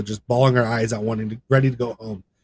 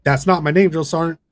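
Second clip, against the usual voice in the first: higher and louder, insistent; firm correction; 6 semitones higher, 7 dB louder than usual. Retold or imitated. Recruit to drill sergeant, loud insistent correction. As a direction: repeat it firmly without backing down.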